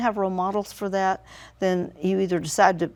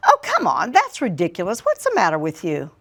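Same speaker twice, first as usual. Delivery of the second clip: dismissive scolding. Retold or imitated. Retold argument with son.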